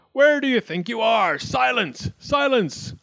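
high, loud scolding; bawling. A narrator's reading. Wildcat as judge quells the racket, bawling high. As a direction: shout them down, climbing on each command. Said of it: "Wildcat bawled".

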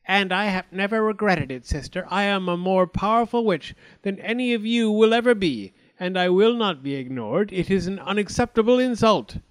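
loud, high, haughty witch; proud witch. Acted. Witch defying the fairies, loud and high. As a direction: fling the insult back at her sister. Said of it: "said the witch".

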